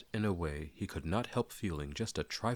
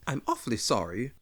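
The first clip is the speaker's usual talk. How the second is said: higher, louder flustered apology; Bilbo apologising; 6 semitones higher, 5 dB louder than usual. Acted. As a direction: blurt out sorry. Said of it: "said Bilbo".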